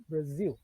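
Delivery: Brasil said the English way with a z sound; English Brazil. Shown as a demonstration. Teacher repeats Brasil for the class, model pronunciation. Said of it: "a pronúncia em inglês é".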